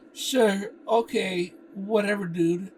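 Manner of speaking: loud, high "whatever, dude"; dismissive. Acted. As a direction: brush him off. Brushing off Frank's bragging.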